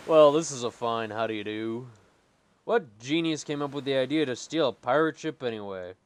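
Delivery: pirate voice. Acted. Voicing pirate captain.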